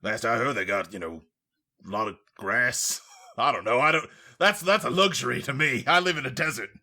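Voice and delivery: bad British accent. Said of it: "this isn't a very good British accent".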